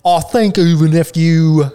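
lightly put-on Southern accent, mouth wide open; a hint of Southern accent with stretched mouth. Shown as a demonstration. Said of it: "if you talked in a southern accent".

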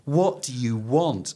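mildly exasperated commander, measured and weary; lightly voiced fed-up superior officer; Colonel White. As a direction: lean on the words with strained patience. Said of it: "how angry must Colonel White be".

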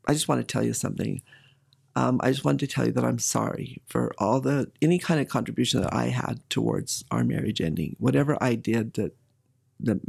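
low, earnest retold apology; sincere apology. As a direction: recount a heartfelt apology, pitched low. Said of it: "And I really meant it".

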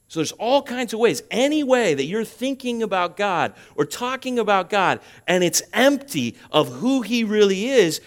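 high-pitched, insistent sermon delivery; emphatic preaching. Real, not acted. Preacher warning about empty talk of God, emphatic preaching.

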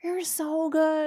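very high, slow, sing-song praise; celebrating praise. Real, not acted. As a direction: gush over the dog. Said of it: "of course I celebrate".

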